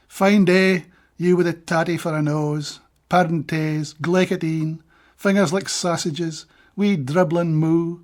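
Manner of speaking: measured recital of a Scots verse; steady Scots poetry recital; poem reading. Acted. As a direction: read it like a poet giving a reading.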